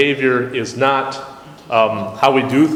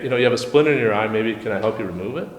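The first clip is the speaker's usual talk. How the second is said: softer, quick, kindly offering help; gentle and kind; 4 semitones lower, 4 dB quieter, faster than usual. Pretend. Offering to help remove the splinter, gentle and kind. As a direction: coax them gently, like a helper. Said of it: "the tone of your voice".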